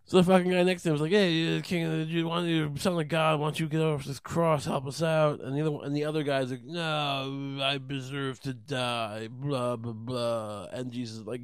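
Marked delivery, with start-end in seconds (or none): 1.1-5.4 higher-pitched, needling challenge; heckling taunt. Acted. Guy on next cross taunting Jesus, needling. 6.6-10.7 slow, drawn-out penitent; half-hearted martyr dragging out the words; mock resignation. Other crucified guy accepting death, mock resigned.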